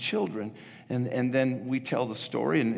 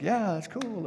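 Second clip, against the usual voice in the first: sample audience response; 7 semitones higher, 3 dB quieter than usual. Shown as a demonstration. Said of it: "you can say something like".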